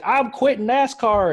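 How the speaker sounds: mock quitting driver. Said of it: "this guy was like".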